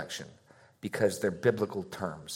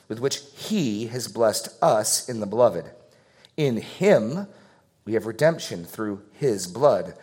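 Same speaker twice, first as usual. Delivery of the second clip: emphatic scripture reading. Acted. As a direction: read the passage aloud like a preacher, weighing each phrase. Reads Ephesians aloud with emphasis.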